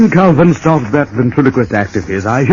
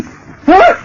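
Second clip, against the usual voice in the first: shocked. Acted. Shocked by phone news.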